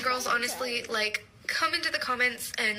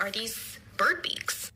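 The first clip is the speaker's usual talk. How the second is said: mock nervous whisper; slower than usual. Boyfriend's alarmed question retold.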